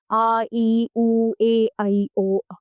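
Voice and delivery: आ, ई, उ, ए, ऐ, ओ drawn out one by one; long vowels. Shown as a demonstration. Teacher listing long vowels आ, ई, उ, ए, ऐ, ओ, each held long. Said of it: "दो गुना समय लगता है".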